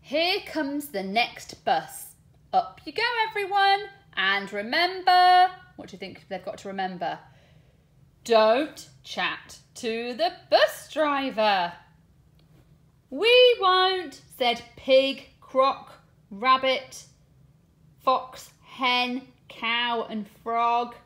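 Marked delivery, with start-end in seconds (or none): 0.0-5.5 lively, sing-song storybook reading with voiced lines; reading to children. Teacher reading a bus story aloud to her class, animated storytelling. Reads picture book to class. 8.2-20.9 lively, sing-song storybook reading with voiced lines; reading to children. Teacher reading a bus story aloud to her class, animated storytelling. Reads picture book to class.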